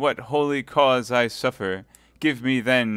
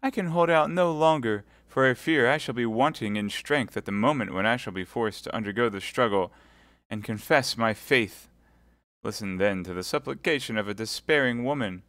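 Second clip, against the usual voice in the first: high, desperate begging; despairing plea; 4 semitones higher, 4 dB louder than usual. Acted. Milady begging Felton at his feet in despair. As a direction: beg him on her knees. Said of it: "cried Milady".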